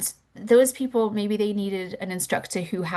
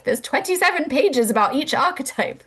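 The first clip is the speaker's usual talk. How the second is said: astonished; 8 semitones higher, 5 dB louder than usual. Retold or imitated. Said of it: "Leslie was like".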